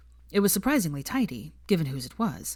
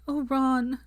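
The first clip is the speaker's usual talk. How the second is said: higher, emotional Oh, Ron; cried out; 8 semitones higher than usual. A narrator's reading. Hermione springing up to hug Ron, crying out. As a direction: burst out with relief. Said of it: "Hermione cried".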